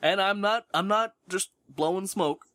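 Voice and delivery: talking around a cigarette; words past a cigarette between the lips; cigarette in mouth. Real, not acted. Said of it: "I am smoking a cigarette right now".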